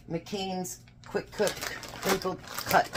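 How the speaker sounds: slow, careful read of a tricky brand name. Real, not acted. Home cook to viewers, reading the package name slowly. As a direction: sound out each word slowly. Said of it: "Say that fast".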